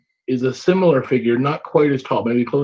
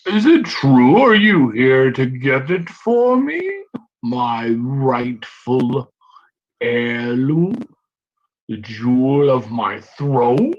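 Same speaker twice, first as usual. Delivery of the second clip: goblin king; much slower than usual. Acted.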